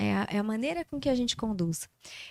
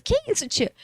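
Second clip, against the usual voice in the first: put-on surprised child; 14 semitones higher, 5 dB louder than usual. Child baffled by odd question.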